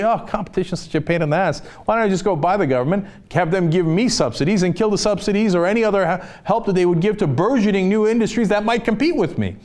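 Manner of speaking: quick, smug voice of a greedy tycoon; mock tycoon. Host mocking billionaires' thinking, fast and smug. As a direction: rattle it off like a scheming monopolist. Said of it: "How do you get a monopoly?".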